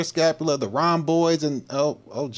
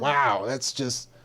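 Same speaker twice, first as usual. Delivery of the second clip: awed mock girlfriend; 8 semitones higher, 3 dB quieter, much slower than usual. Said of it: "She's gonna be like".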